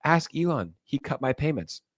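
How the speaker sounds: high, mocking quoted exchange; mock interviewer and reply. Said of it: "she's doing publicity stunts where she's like".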